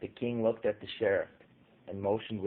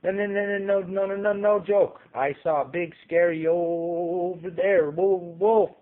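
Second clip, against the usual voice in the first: higher, louder, stammering; frightened stammer; 8 semitones higher, 6 dB louder than usual. A narrator's reading. Frightened town lady insisting it's no joke, stammering. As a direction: stumble over the words in fright. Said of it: "a frightened town lady stammering on".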